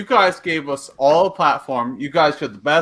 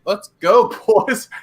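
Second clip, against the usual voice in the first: hyped up; 3 semitones higher, slower than usual. Real, not acted. Hyped call to the hosts.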